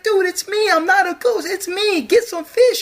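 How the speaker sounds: high goofy casual dude voice; high mocking bro voice; mock Jesus voice. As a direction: play him as a laid-back surfer dude.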